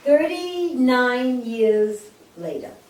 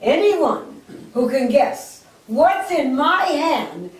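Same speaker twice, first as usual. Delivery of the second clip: put-on announcing old lady; 4 semitones higher, 3 dB louder, slower than usual. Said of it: "she announces".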